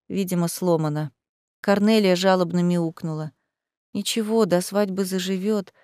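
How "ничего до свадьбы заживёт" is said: softer, soothing comfort. Acted. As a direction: gently reassure the hurt cat. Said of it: "погладила её Лиза".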